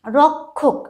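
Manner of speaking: রক্ষক with k plus aspirated kh; রক্ষক pronounced rok-khok. Shown as a demonstration. Teacher adding an example, রক্ষক as rok-khok. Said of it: "এরকম এই উচ্চারণগুলোর ক্ষেত্রে".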